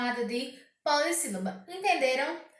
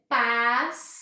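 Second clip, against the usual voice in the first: PASSARELA bem esticada, PAS-SA-RE-LA; separado em sílabas; 3 semitones lower, 5 dB louder than usual. Shown as a demonstration. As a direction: diga "passarela" em quatro partes lentas, com pausas. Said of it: "eu tenho quatro sílabas". (silabado, PAS... SA... RE... LA)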